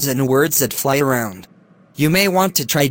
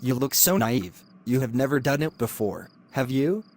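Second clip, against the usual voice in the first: creepy hushed coaxing; 7 dB quieter than usual. Acted. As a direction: coax her in a hushed, creepy voice. Lecturer coaxing the student.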